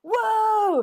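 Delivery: high mock chorus of startled crew; crew calming him. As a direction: play the crew rushing in to hold him back. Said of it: "you just hear people go".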